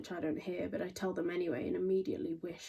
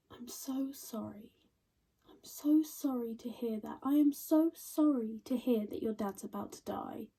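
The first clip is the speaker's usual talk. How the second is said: mock sympathy; 4 semitones higher than usual. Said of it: "when someone says they're sorry".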